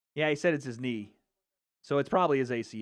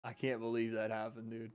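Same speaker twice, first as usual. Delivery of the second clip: even softer, hushed disbelief; stunned quiet; 5 semitones lower, 12 dB quieter than usual. Real, not acted. Streamer repeating himself to chat after the knockout, hushed disbelief. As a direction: barely voice it, still shocked.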